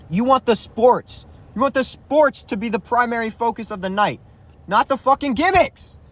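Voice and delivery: getting heated. Real, not acted. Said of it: "I'm getting fucking heated".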